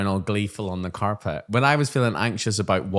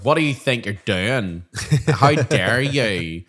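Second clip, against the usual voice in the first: slow, stern scold; hammed-up teacher telling a child off; mock telling-off; 4 dB louder, slower than usual. Teacher mock-scolding a misbehaving child, stern. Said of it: "I'm putting on a bit strong".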